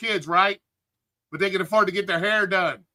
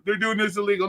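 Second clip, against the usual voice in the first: mocking whiny complainer. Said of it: "you wanna cry about it and say".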